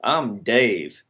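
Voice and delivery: lightly put-on country accent. Co-host teasing with a mild cowboy voice. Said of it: "you've been told not to do impressions or accents or characters".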